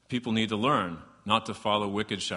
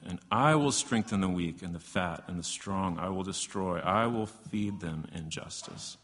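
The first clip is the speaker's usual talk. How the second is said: scripture reading. Acted. Reads long scripture passage aloud.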